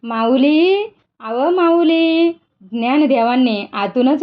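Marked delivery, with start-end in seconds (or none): 0.0-2.3 calling toward the hut door, slow and drawn out; a farmer calling out a long, slow call. Acted. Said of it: "त्यानं हाक मारली".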